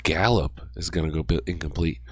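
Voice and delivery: hoarse voice fading to a whisper; losing voice. Real, not acted. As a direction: voice reduced to a breathy whisper. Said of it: "sorry, I was losing my voice".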